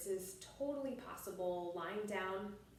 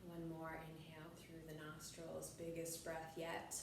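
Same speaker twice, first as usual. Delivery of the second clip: guided breathing meditation; 5 dB quieter than usual. Shown as a demonstration. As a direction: lead the breath gently, drawing out the words.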